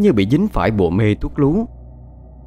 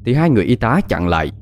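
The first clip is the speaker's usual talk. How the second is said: usual speaking voice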